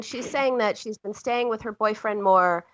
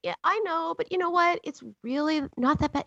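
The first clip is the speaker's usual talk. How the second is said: dismissive reassurance; 5 semitones higher than usual. Retold or imitated. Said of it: "I did exactly the wrong thing".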